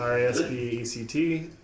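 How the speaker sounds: spelled out in a flat monotone. Acted. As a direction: recite each letter with no tune. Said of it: "like, a monotone voice".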